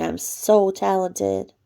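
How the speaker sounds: drawn-out smug self-praise, lightly hammed; slow mock bragging. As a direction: stretch out so talented slowly, smug and mocking. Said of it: "So I was like".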